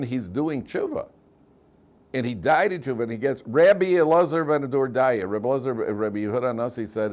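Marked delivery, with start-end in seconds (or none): 3.5-5.3 high, loud, slow name announcement; heavenly proclamation. Acted. Heavenly voice announces Rabbi Elazar ben Dordaya, ringing loud.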